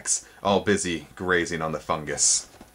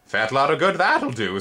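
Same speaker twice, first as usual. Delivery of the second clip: higher insect voice, lightly scoffing; 7 semitones higher, 3 dB louder than usual. A narrator's reading. First spindlebug scoffing, higher insect voice. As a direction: dismiss it with a scoff. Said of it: "said the first".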